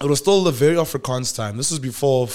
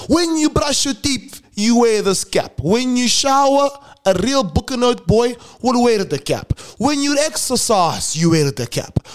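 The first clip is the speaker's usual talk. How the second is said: bossy senior; 9 semitones higher than usual. Retold or imitated. Senior telling first years to wear the cap, mock stern and high. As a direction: lay down the law about the cap, each phrase stretched.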